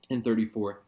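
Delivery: normal talking voice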